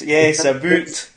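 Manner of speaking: "a boot" drawn out slowly like the boot you wear; imitating Canadian about. Host mimicking guest's Canadian "a boot", slow and teasing. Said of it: "I say a boot".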